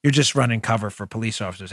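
low, dismissive heckler's complaint; mock objection. Voices a sceptical listener's objection.

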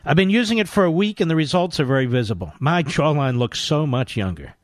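upbeat hard-sell ad read. Acted. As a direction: push the sale like an infomercial. Host reads skincare ad.

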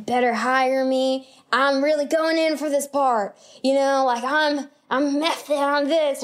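lightly voiced over-intense method actor; mildly hammed-up crazy actor. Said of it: "that crazy actor that's like".

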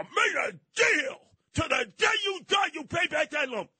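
put-on high shouting old codger; old prospector. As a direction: bellow it like a cranky old prospector. Voicing outraged opponent.

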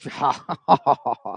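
low, drawn-out mocking laugh. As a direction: imitate people finding it hilarious. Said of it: "Truth seems hilarious to all of them".

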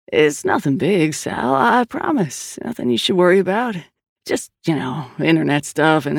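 a hint of an evasive kid brother, hedging as he goes; lightly voiced pleading brother. Brother asks his sister for a place to stay, mildly pleading and evasive. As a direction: play down the trouble, lightly wheedling. Perry excuses himself to sister.

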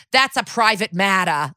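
lightly imitated Boston accent; a touch of Boston, "matter" as "mattah". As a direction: mimic his Boston accent, dropping the R. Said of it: "he's very Boston, this guy, what he's doing with his accent".

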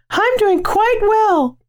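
very high, slow falsetto; put-on girl voice. Correcting himself to co-host in a high girl voice. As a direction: draw it out in a silly high girl voice. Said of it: "why'd you do it in that voice".

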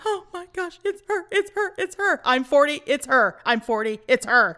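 high, breathless fan squeal; starstruck gushing. Retold or imitated. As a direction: gush like a starstruck kid. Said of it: "I was going".

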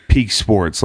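lightly nasal know-it-all nerd; a hint of a dorky nerd. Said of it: "in this kinda nerd voice".

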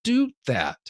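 high, baffled question to herself; how did I do that, amazed; baffled disbelief. Real, not acted. Baffled at own identical takes.

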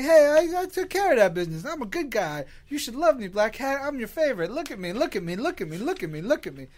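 high, fast, needy villain voice; whiny attention-seeking villain, look at me; Killer Shrike impression. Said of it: "that's my Killer Shrike impression".

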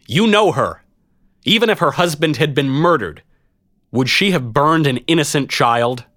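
high-pitched rallying appeal; addressing a crowd. A narrator's reading. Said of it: "I turned to address the vast crowd head on".

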